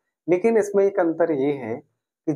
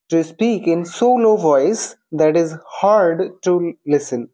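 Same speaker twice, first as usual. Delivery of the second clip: slow read-out; much slower than usual. Shown as a demonstration.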